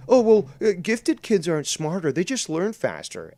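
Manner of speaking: high, loud mock teacher reassurance; squeaky patronising teacher, hammed up. Quoting the teacher on gifted kids, in a high, loud mock voice. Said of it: "and this is a true story, is".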